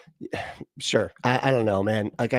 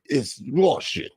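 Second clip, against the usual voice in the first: mock Russian accent; 3 semitones higher, much slower than usual. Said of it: "the other one's like".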